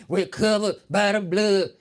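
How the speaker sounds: loud slow repeated response. Retold or imitated. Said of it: "Say it again".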